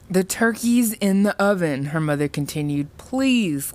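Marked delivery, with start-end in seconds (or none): 0.1-1.9 higher-pitched, anxious mother; mildly pleading reassurance; anxious placating. A narrator's reading. Frightened mother placates Sam. 3.0-3.7 high, drawn-out plea; anxious mother imploring; pleading. A narrator's reading. Mother begs for peace.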